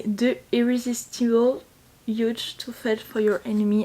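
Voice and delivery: English title read slowly with a heavy French accent; careful, hesitant English in a strong French accent. Real, not acted. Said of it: "avec mon accent incroyable".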